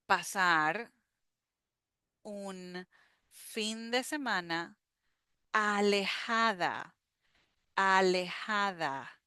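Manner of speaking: slow, phrase-by-phrase read-aloud; teacher reading the paragraph slowly. Shown as a demonstration. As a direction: read slowly with pauses for repeating. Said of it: "So I'm gonna read very slow".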